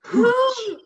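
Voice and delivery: loud, high shout of the dog's name; calling the dog. Acted. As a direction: call him across the docks like a worried owner. Host acts Tom Hanks calling dog.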